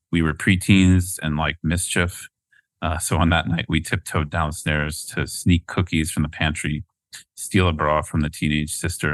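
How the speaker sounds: measured, earnest book reading; reading aloud. Acted. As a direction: read it like a memoir. Reads a passage from the book.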